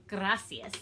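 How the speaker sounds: "Gracias" with an attempt at a rolled r; Spanish "Gracias", r tentatively trilled. Shown as a demonstration. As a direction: try rolling the r in "Gracias". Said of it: "I tried to roll my R".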